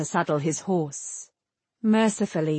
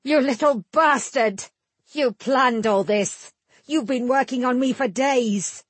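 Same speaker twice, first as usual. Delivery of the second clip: high, raging accusation; furious shout; 5 semitones higher than usual. A narrator's reading. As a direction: scream it in fury. Tannic raging at the bard.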